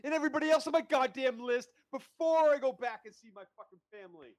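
high, loud ranting revenge; furious Arya. Retold or imitated. Friend ranting as Arya, high and loud. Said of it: "She says".

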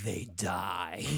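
menacing villain. Acted. Acted villain line, low menace.

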